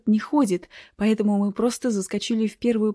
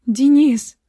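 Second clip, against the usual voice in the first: high, loud scream of his name; shocked cry; 5 semitones higher, 9 dB louder than usual. Acted. Woman screams at Denis as the doctor collapses, loud shocked cry. Narrator screams as Tupolev falls.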